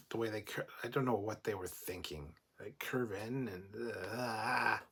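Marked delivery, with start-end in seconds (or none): 4.1-4.8 drawn-out "uhh" of distaste; long disgusted uhh; disgusted groan. Real, not acted. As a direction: groan at something ugly. Disgusted noise at ugly ship struts.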